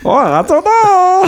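numb tongue, slurred words. Real, not acted. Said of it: "Oh, my tongue is numb".

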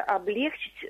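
облегчить stressed on the middle е; mistaken stress. Retold or imitated. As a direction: put the stress on лег in облегчить. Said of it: "это очень распространённая ошибка".

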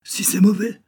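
whispered high and breathy with dread; eerie whisper of warning; hushed whisper. Acted. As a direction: breathe it out like a scary secret. Sailor boy tells of the fish.

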